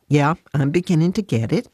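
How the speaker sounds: usual speaking voice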